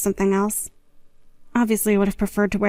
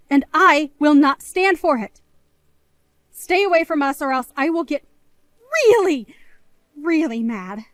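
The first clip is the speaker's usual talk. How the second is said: stern threat; 2 semitones higher than usual. Acted. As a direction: lean on the threat. Warns sister to stay away.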